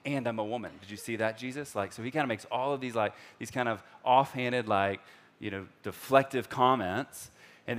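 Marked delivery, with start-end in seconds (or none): 0.0-1.7 lightly sarcastic, a touch brighter; a hint of a wry Samaritan woman; sarcastic remark. Woman deflecting Jesus at the well, mild sarcasm. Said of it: "kinda sarcastic remark".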